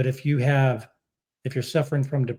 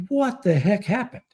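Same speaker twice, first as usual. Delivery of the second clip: higher-pitched baffled question; incredulous, pitched-up reaction; retold bewilderment; 7 semitones higher than usual. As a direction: act out being thrown for a loop. Retelling his own bewildered reaction.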